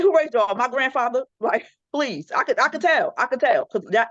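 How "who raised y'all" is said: incredulous demand. Retold or imitated. Mother demanding of her daughters who raised them. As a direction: hit "Who" hard, up high, in disbelief. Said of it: "I said".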